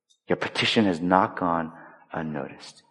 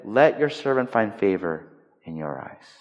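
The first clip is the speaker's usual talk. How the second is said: humble, gracious. Retold or imitated. Praying woman answers the spiritual leader who accused her, humble and gracious. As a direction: settle down into a gentle, humble plea. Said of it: "she is so gracious and humble".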